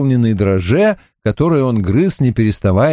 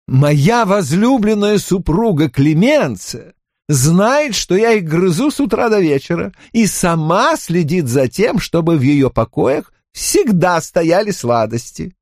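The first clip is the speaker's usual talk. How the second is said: king's voice; 7 semitones higher than usual. Acted. King Louis explains proudly.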